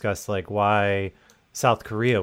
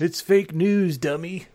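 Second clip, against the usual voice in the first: mock heckler; 8 semitones higher, slower than usual. Mocking a heckler yelling at mask-wearers.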